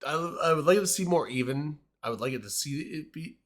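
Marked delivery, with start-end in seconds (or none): 2.0-3.4 slurring. Real, not acted. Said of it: "I'm slurring".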